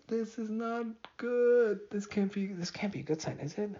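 high-pitched self-critical voice; high inner critic slipping out. Real, not acted. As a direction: fret at yourself in a high voice. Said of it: "now you guys saw my critical voice".

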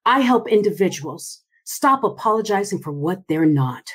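steady, sure statement to your own eyes; with conviction. Shown as a demonstration. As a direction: say it like you mean it, looking yourself in the eye. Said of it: "say it in conviction to your own eyes".

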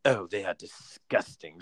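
a slow, lightly voiced English mother, grossed out; slow, disgusted English mum, lightly done; northern English mum impression. Son imitating his English mum judging a southern accent, lightly voiced. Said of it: "my mother being like".

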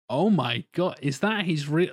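retold astonishment, pitch lifting; taken aback. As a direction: act out amazed disbelief. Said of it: "taken aback".

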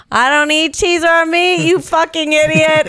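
high, slow, punched-out annoyance; mock-angry snap at a clueless boyfriend; exasperated retort. Girlfriend retells refusing boyfriend's cheese and meat, exasperated high retort. Retold quarrel over food.

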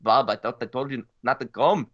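bad German accent. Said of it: "That was a horrible German".

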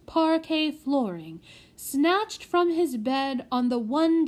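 a lightly voiced old butler; old butler telling the sad tale. Butler continues.

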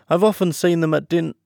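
high, loud line broken off mid-word; cut short hastily. Acted. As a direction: catch yourself hastily on "din-". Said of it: "she checked herself hastily".

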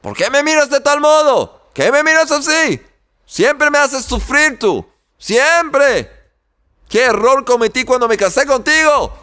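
angry wife screaming at her husband from the kitchen; furious yelling. Acted. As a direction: hurl complaints at the husband. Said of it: "la esposa volvió de la cocina y gritó".

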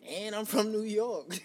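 slow, loud, proud brag; slow swaggering boast; boastful brag. Retold or imitated. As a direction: drop it like a trump card, slowly. Bragging punchline in story.

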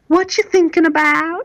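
high put-on wife voice asking; imitating the wife. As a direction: pitch it way up, a prying wife. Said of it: "when your wife comes to you and she says".

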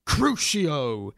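a hint of a deep spell-caster's Crucio. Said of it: "said Derek in a deep voice".

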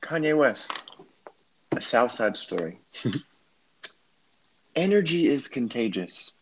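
measured, earnest recitation; scholarly reading. Shown as a demonstration. Reading a rapper's tweets to friend, as a scholar. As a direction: read it like a serious scholar. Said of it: "read it like you're a scholar".

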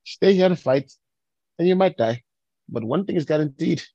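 put-on high, rousing stab at a Scottish accent; rally the troops in a rough Scottish accent; attempted Scottish accent. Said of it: "I can't do the Scottish accent".

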